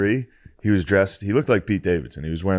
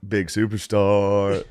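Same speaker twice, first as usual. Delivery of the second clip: mocking superstar; much slower than usual. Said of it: "doing that to me".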